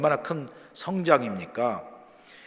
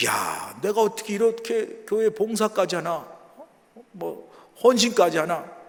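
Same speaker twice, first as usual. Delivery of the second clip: self-amazed; 5 semitones higher, slower than usual. Acted. Believer marvels at serving the church, moved and amazed. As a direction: play being deeply moved by your own service. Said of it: "스스로 놀래가지고 감격해서".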